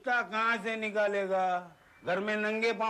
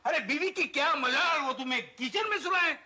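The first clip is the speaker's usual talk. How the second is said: higher-pitched comic indignation; indignant goading; 5 semitones higher than usual. Acted. Friend goading a husband banished to the kitchen, indignant. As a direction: egg him on, incredulous. Wife's allies goad the henpecked husband.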